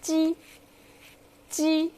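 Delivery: 鸡 with a clear j sound; 鸡 showing the j consonant. Shown as a demonstration. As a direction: say 鸡 crisply as ji. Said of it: "the consonant is".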